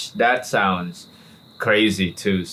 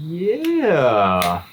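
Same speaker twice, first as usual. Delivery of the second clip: imitating the agent; 3 semitones higher, much slower than usual. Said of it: "They were like".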